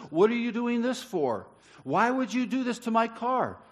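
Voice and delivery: mild mock fury. Young man asks the old lady why, with mild fury. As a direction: play the furious driver lightly. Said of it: "He's furious".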